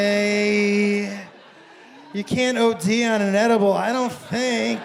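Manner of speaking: drawn-out, anxious self-reassurance, acted; talking yourself down. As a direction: stretch the last words as you reassure yourself. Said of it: "trying to talk yourself down off the ledge".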